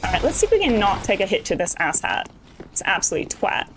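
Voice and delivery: mock British swearing; bad British accent. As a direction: curse in a hammed-up, badly faked British accent. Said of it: "a really bad British accent that I'm doing".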